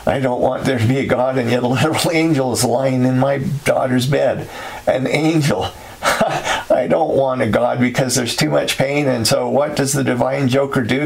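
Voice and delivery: bitter laughter breaking through the words; laughing. Acted. Narrator laughing bitterly at the angel in his daughter's bed. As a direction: laugh through it, half hysterical. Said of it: "No, I'm laughing".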